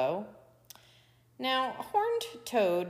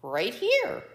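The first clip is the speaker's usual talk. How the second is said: louder, higher answer; calling out; 4 semitones higher, 6 dB louder than usual. A narrator's reading. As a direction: call back to someone searching. Hidden Toad answers Coyote's search.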